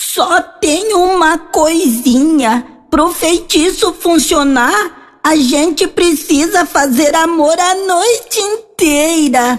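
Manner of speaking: put-on high, slow old witch voice, spoken aside.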